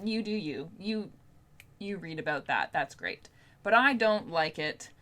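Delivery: ordinary talk, nothing marked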